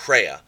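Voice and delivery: Rhea with a breathy h before the r, hrea; rough-breathed rhea. Shown as a demonstration. Teacher modelling the rough breathing in Rhea. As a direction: say Rhea with an h up front. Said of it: "like, rhea".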